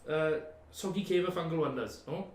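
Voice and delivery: lightly voiced chatty hermit; a hint of a cheery cave dweller.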